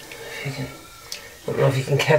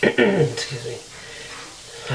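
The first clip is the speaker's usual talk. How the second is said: choked up; 3 semitones lower, 7 dB quieter, much slower than usual. Real, not acted. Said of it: "I don't know why I'm all choked up".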